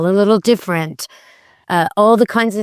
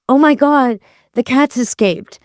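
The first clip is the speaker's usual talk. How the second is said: higher-pitched mock alarm; worried excited; 5 semitones higher than usual. Shown as a demonstration. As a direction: act out a mildly worried alert. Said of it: "That's worried excited".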